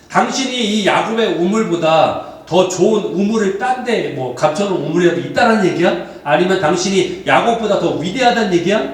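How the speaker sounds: acted challenge, mildly combative; lightly indignant cross-examination; confrontational questioning. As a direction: press him with pointed questions. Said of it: "이렇게 막 따지고 물어보는 거예요".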